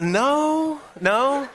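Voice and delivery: high-pitched, drawn-out "no"; retold amused denial. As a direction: deny it in a comic high voice. His amused answer to her guess.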